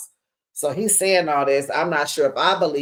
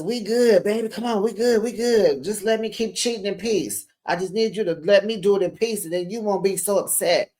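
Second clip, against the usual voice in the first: higher, coaxing mock boyfriend voice; mock sweet-talk; 4 semitones higher, faster than usual. Glenn sweet-talking Latrice, mocked in a higher coaxing voice. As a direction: play the smooth cheater in mockery. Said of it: "he says".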